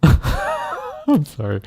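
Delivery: apologising through a laugh; real helpless laughter. Real, not acted. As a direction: break into laughter while saying sorry. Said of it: "Sorry, I was laughing".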